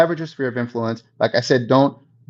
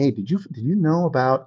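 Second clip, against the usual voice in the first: insider tip. Retold or imitated. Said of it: "giving them insider information".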